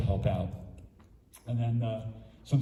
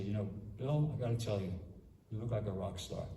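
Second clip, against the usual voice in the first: softer, heartfelt and earnest; mean every word of the praise; sincere compliment; 6 dB quieter than usual. Shown as a demonstration. Monk showing how to compliment a student, sincerely and softly. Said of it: "And you gotta say it really sincerely".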